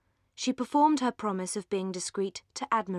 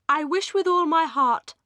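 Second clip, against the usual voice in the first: higher, sweetly gushing lady; affectionate; 8 semitones higher, 8 dB louder than usual. A narrator's reading. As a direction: lay the sweetness on thick. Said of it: "in her affectionate way".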